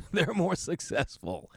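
slow, laughing through it, stress on They're; laughing repeat. Real, not acted. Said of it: "'Cause they're more successful than me".

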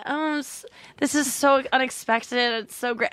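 mock gushing winner. Mimicking the contestant gushing beside empty-handed girls, mock gushing. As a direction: lightly mimic someone overcome with surprise. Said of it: "she just kept going".

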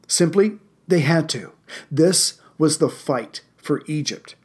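measured narrator with dramatic pauses; history narration. A narrator's reading. Host narrating a desert battle for listeners, measured history narration. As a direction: read it as a deliberate, scripted war story.

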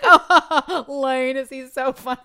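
high, loud gushing buddy voice; imitating husband. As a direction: gush over the mayor's joke. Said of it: "that's how he sounded".

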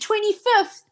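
both blurt the date, delighted; in unison. Retold or imitated. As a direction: say it together, thrilled. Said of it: "we both said".

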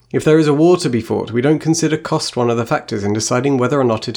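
a lightly voiced, measured witch reading; reading the witch's speech. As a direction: read it like the wise witch queen. Reads Serafina's speech aloud.

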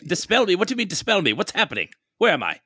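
panicked. Acted. Character panicking.

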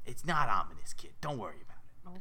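New York fish waving off worry; dropping to a raspy New York murmur; raspy New Yorker. Acted. Fish reassuring the kid, raspy New York voice. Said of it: "They all sound like raspy New Yorkers".

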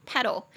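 "pedal" with stress on PE; stress on first syllable. Shown as a demonstration. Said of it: "重音节在第一音节".

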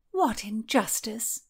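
slow, high mock indignation; high theatrical sigh of outrage. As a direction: play up the injustice. Mary protesting.

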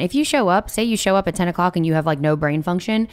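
talking through hiccups; hiccuping. Real, not acted. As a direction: hiccups breaking the words. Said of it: "Excuse me, I'm hiccuping".

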